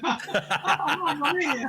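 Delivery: high, hammed-up Italian American cry; mock-dramatic Italian American voice; Italian American deli guy. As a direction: exclaim like a cartoon Italian American shopkeeper. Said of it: "You're a guy in the deli over at the side going".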